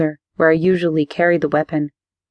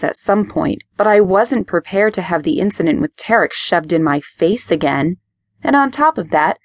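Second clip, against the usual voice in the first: explosive rage. Acted. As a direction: build an angry rant. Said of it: "I exploded".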